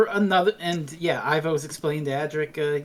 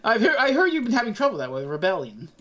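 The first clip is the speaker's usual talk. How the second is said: peak mocking; faster than usual. Doctor needles Camilla about the peasants, mocking. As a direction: fake agreement, rising into pointed questions. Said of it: "the Doctor is just peak mocking mode".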